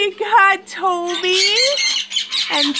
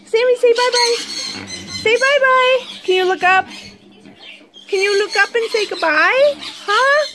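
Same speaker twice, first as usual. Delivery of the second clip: higher, rising sing-song prompts; coaxing pet talk; 6 semitones higher than usual. Real, not acted. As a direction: coax the bird to wave bye. Coaxing bird to say goodbye.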